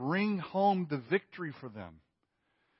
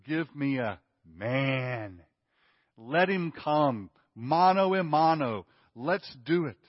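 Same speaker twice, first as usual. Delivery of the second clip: louder, slower dare; mock challenge; 6 dB louder, slower than usual. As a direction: throw down the challenge, man to man. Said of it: "And then he says".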